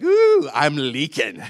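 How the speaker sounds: drawn-out "ooh", then slow words; mock alarm with a stretched start; comic dismay. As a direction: play up a silly little leak. Comic reaction to slipping out loud.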